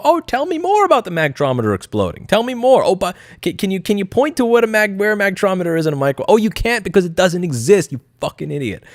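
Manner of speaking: high, syrupy fake-curious taunting; high sarcastic taunt; sarcastic mock interest. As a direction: bait them with fake interest, then sneer. Mocking opponents at hearing.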